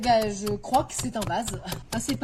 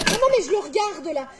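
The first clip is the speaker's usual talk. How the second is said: mock indignant protest; 5 semitones higher than usual. Customer fights over a vase.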